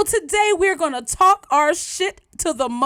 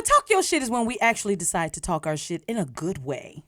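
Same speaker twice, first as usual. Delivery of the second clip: Siri voice; 7 semitones lower, 4 dB quieter than usual. Pretend. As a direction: lower computerized assistant voice. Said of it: "computerized, uh, Siri voice".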